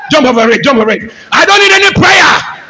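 careless, dismissive taunt; defiant boy. Retold or imitated. Preacher acting a rebellious son, careless. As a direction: brush it off like a rebel. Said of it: "He doesn't care".

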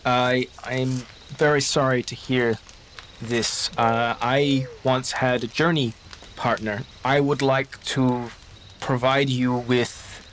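slow, halting and careful; gentle condolence. Acted. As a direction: feel for each word of sympathy. GM voices Baptiste's slow condolence.

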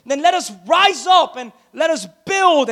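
mildly pumped-up rallying cry; a retold call to action with a touch of fire. People riled up to rebuild the wall, mildly pumped up. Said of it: "they're getting all pumped up".

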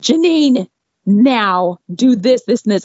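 high, rushed orders barked at Janine; bossy vet tech. Retold or imitated. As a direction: rattle off commands like a frantic boss. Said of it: "she went".

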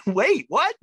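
very high, loud double take; can't believe what just happened; stunned disbelief. Retold or imitated. Filmmaker reliving the moment Frank signed his card, stunned and high.

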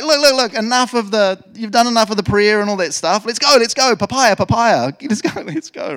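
high, loud, urgent chivvying; impatient God. Acted. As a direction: hustle them along like a hammed-up impatient boss. God hurrying Moses along, acted.

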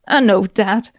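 snapped. Acted. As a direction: snap it at her impatiently. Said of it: "Nedek snapped".

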